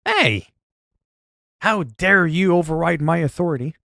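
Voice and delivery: normal talking voice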